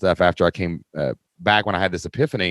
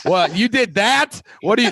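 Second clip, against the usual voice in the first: mock self-scolding Marcus; 6 semitones higher than usual. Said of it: "he's like".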